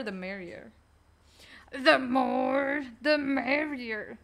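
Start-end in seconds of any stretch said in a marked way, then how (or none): 1.7-4.2 imitating someone else's voice. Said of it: "I don't think that's how they sound".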